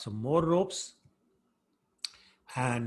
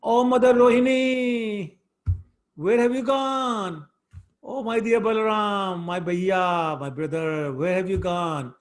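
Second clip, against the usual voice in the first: put-on high, loud, slow childish wail for help; a little boy crying out for his family to save him; pitched-up drawn-out cry of a child calling for rescue; wailing shout; 6 semitones higher, 7 dB louder than usual. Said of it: "He started shouting".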